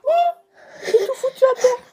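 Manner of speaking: laughing in dismay. Real, not acted. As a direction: laugh through the words. Spills everything, laughs.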